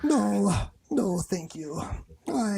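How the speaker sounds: a light high Pooh Bear; softly voiced sleepy bear. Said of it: "my Pooh Bear".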